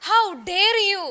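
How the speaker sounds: loud, angry How dare you; angry lion shout. Shown as a demonstration. Teacher showing the class how the lion shouts, angry and loud. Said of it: "ഉറക്കെ പറ, നല്ല shout ചെയ്ത് പറ".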